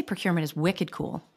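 light Boston accent, wicked cool; a touch of Boston in the vowels. Shown as a demonstration. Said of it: "Usually I'm pretty good at managing my Boston accent".

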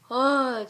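loud, fed-up ugh; exasperated groan. Real, not acted. Woman fed up with girls' comments, exasperated groan.

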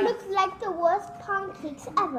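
put-on English accent. Child cook judging the batter, high pretend English accent. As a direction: declare it in a mock English accent. Playing English while cooking.

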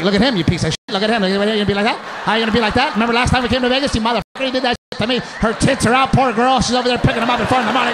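lightly voiced indignant women, piling on; imitated scolding wives. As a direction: rattle off a comic telling-off to your man. Other wives scolding their men.

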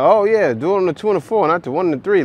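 hammed-up quote of a demanding woman; mocking the woman. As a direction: imitate her with exaggerated gusto. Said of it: "She's like".

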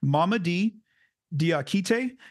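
name said slowly, part by part. Shown as a demonstration. Podcaster carefully trying a new player's name, very slowly. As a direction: sound out Mamadi Diakite with a pause between names. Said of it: "say his name very slowly at first".

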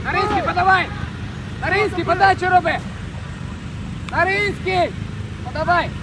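yelling from the sidelines. Real, not acted. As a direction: call the player's name across the pitch. Coach calling player to pass.

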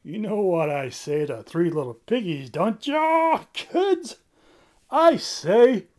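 rising loud showmanship; hammy showman. Acted. Bird playing to the kids before a catchphrase. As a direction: work the crowd of kids.

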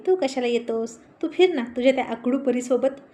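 a touch of sisterly mockery; little sister teasing brother about his girlfriend, mock scorn; taunting. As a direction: needle him, lightly sneering. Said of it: "टोमणे मारत म्हणाली".

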